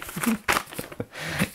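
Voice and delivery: airy giggle, high and breathless; high breathless laugh. Real, not acted. Laughing at Ivana's video.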